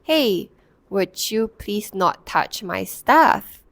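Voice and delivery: slow, even, composed request; calm request. Retold or imitated. Woman calmly asking the boy to stop touching her things. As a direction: stay calm and ask politely. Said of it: "this ability to say it very calmly".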